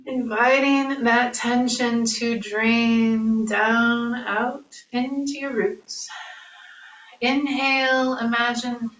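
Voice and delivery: calm breathing cues with long pauses; measured, unhurried yoga-teacher guidance; guided meditation. Acted. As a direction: lead a body scan, leaving room for each breath.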